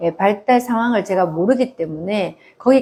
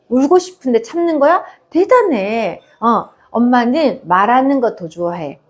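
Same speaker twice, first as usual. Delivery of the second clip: put-on gentle praise to child. Shown as a demonstration. Mother encouraging her crying toddler to speak, gently. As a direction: praise the little one sweetly, warmly encouraging.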